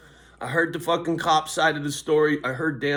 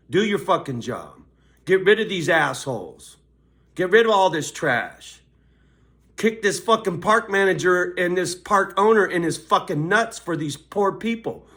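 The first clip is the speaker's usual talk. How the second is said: loud, higher ranting; angry rant; 4 semitones higher, 5 dB louder than usual. Real, not acted. Ranting at the park owner, loud and higher.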